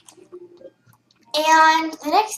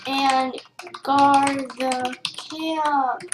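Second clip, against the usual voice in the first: calm wise voice; 4 dB quieter, slower than usual. Shown as a demonstration. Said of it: "shows you're a wise person".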